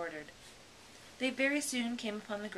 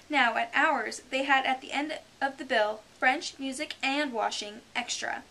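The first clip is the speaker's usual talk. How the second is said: higher, louder boasting; boastful Mock Turtle; 6 semitones higher, 9 dB louder than usual. The Mock Turtle boasting of his schooling, proud. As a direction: brag as an old turtle.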